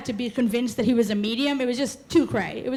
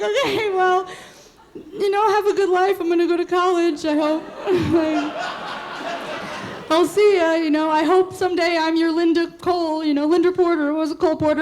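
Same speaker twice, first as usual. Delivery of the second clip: sarcastic goodbye; 5 semitones higher than usual. Retold or imitated. Girlfriend dismissing boyfriend before college, high sarcastic farewell. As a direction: brush him off with laughing sarcasm.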